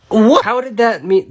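loud, high, short "What?"; baffled outburst. Real, not acted. Player stumped by emoji rapper puzzle, baffled. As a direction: blurt it out in disbelief.

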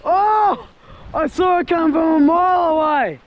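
high-pitched, real excitement at a strike; excited outburst. Real, not acted. Angler seeing a fish come from a mile away, excited. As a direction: cry out as the fish hits.

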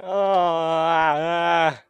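drawn-out moaning wail; long dismayed groan. Real, not acted. Gamer overwhelmed by chaos, dismayed groan. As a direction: groan it out at length. Moans after being swarmed.

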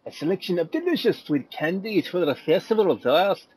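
put-on a light, hammy Irish accent; reading the item text in a mock Irish accent. Gamer reads a candy description in joke Irish accent. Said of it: "There's my Irish accent for you".

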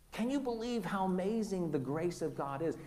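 awed question, dropping in volume; wonder and awe. Acted. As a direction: marvel at it quietly. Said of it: "a sense of wonder and awe".

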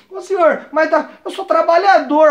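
high, slow plea of innocence; mock pleading. Telling the officer he is a worker, mock pleading. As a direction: stretch it out pleadingly.

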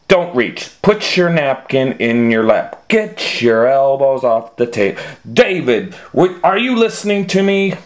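nagging parent. Acted. Mother scolding at table.

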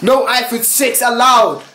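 mock him while laughing; laughing taunt. Real, not acted. Mocking player with laugh.

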